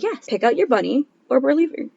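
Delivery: laughing through dad's words. Retold or imitated. Quoting dad while laughing.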